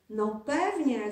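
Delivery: slow, emphatic call; proud of mum, call it out; mild eager exclamation. Acted. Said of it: "zawołał Adaś".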